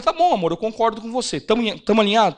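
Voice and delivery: agreeable wife, pitched a little up; lightly voiced wife. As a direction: imitate a wife readily agreeing. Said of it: "Aí ela falou".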